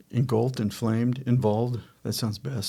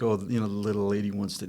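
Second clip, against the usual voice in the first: softer, quick patronizing aside; mock sexist condescension; 3 semitones lower, 6 dB quieter, faster than usual. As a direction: pat her on the head, mockingly. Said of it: "I wasn't being condescending like".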